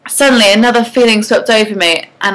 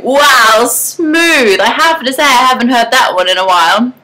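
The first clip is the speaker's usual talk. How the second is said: louder, amused mocking laugh; 4 semitones higher, 3 dB louder than usual. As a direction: laugh off his line. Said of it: "I burst out laughing".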